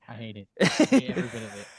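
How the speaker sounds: mock complaint. Band member joking about filming.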